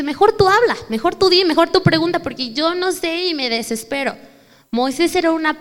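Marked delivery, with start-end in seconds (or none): 0.0-4.2 higher and louder, a father who'd rather let you talk; imitating flustered dad. Preacher imitates her dad pushing her to speak, flustered. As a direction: hand the talking off in a fluster. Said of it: "mi papi dice".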